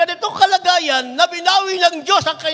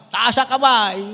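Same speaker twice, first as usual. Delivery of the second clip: firmer call; 2 semitones lower than usual. Real, not acted. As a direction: insist the youths raise their hands. (mas malakas na ulit na "Taas ang kamay")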